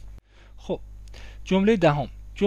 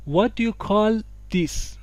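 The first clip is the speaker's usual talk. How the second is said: الگوی شمرده; 4 semitones higher, much slower than usual. Shown as a demonstration. Teacher models the new sentence.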